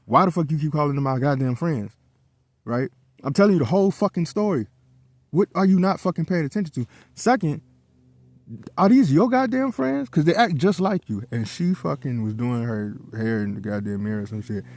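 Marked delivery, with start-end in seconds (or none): 0.5-11.2 building exasperation, firing questions at her; heated retold rant. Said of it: "I'm like, First off".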